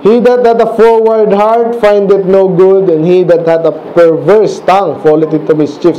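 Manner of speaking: slow, measured Bible reading; slow verse read aloud to the class; scripture reading. Acted. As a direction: read the old words slowly and gravely.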